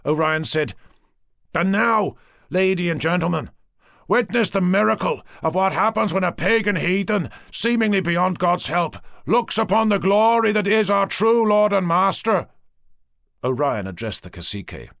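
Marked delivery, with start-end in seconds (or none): 1.5-12.5 high, loud mad preacher proclaiming; half mad, half ecstatic priest announcing a miracle; wild-eyed zealot. Acted. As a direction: fanatic priest to his hostages, loud and rapturous. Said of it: "Wild-eyed, as if driven half mad".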